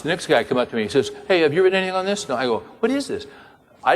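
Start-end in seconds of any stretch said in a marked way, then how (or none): 1.3-2.3 high, fast eager asking; eager rushed question. Retold or imitated. Man after the talk, eagerly asking the speaker. 2.8-3.3 high, disbelieving cry; baffled. Retold or imitated. Speaker to himself, baffled by the questions.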